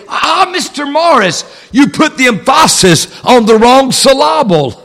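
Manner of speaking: high-pitched teacher impression, loud and theatrical; Doctor Arp. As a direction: mimic an exasperated Greek teacher, mis-stressing emPHAsis and sylLAble. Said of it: "as my Greek teacher, Doctor Arp, used to speak".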